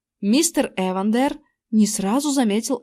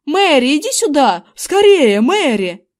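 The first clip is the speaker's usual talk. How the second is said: loud, higher urgent call; 4 semitones higher, 6 dB louder than usual. A narrator's reading. Husband urging his wife outside, loud urgent call. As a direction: hurry her out, calling loudly.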